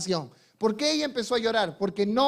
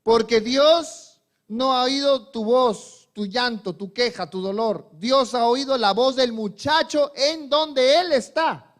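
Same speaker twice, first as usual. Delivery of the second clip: emphatic proclamation, building louder and slower; acted angel's message; 3 semitones higher, 5 dB louder, slower than usual. Preacher as the angel answering Agar, emphatic proclamation. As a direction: lightly voice an angel declaring good news. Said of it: "Y le dice".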